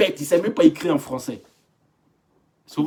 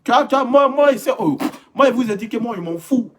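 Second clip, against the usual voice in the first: lightly voiced old man; 6 semitones higher, 4 dB louder than usual. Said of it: "Le vieux là".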